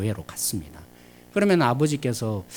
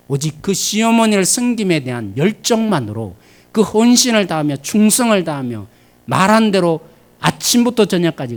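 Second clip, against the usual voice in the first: rising, louder preaching that climaxes on 아침부터 저녁까지; full-force preaching; 8 semitones higher, 9 dB louder than usual. Acted. Preacher extolling Ruth's devotion, loud and building.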